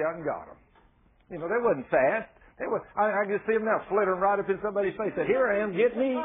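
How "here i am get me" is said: pretend quail. Quail speaking to the people.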